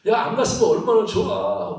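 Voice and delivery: playful grumbling reproach with a laugh; mock blaming. Disciple scolding Peter for suggesting the crossing, mock resentful. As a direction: complain at a companion, half laughing. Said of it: "막 이렇게 서로 원망할 텐데".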